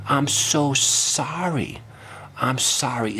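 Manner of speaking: mock sympathy. Fake apology.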